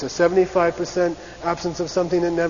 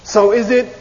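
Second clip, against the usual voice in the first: doubting question; 5 semitones higher, 8 dB louder than usual. Shown as a demonstration. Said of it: "the first one is".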